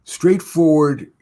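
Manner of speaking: drawn out, weighing the word; slow emphatic. Shown as a demonstration. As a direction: stretch the word out slowly. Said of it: "the difference between straightforward is and couching".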